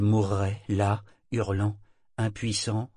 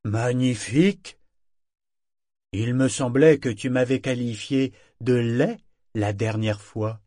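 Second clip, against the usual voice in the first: firm booming voice; 3 semitones higher, 6 dB louder than usual. A narrator's reading. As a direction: boom out of the dark at the intruders. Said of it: "c'est d'une voix ferme qu'il tonna".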